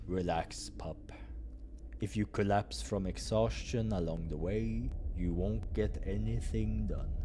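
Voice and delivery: calm him down gently. Acted. Doctor calms Krille.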